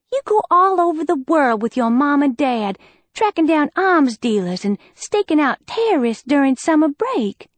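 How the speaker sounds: envious accusation; accusing. Acted. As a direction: push the point home. Liz confronting Bex.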